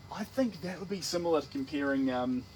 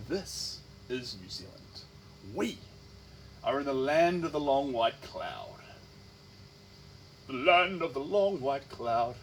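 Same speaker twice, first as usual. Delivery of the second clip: mock-grand announcement; slower than usual.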